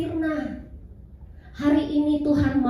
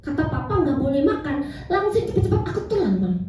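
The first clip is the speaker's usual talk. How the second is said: lightly voiced small child, rising and hurrying at the end; child's voice. Little son confessing to his mother, lightly voiced child. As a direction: play the little boy confessing, speeding up. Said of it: "Lalu dia bilang".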